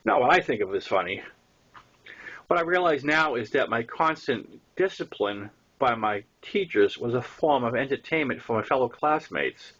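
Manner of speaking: plain reading voice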